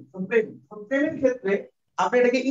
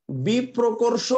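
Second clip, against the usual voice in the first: বিপ্রকর্ষ spelled out very slowly; slow and clear; much slower than usual. Shown as a demonstration. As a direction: dictate বিপ্রকর্ষ syllable by syllable. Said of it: "এটা একটু মাথায় রাখবেন". (খুব ধীরে স্পষ্ট করে বিপ্রকর্ষ)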